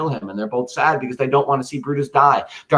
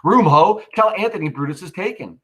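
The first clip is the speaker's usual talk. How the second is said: loud, higher call of a soldier; 7 semitones higher, 3 dB louder than usual. Acted. Soldier announcing the capture to his camp, loud. Reads soldier's lines aloud.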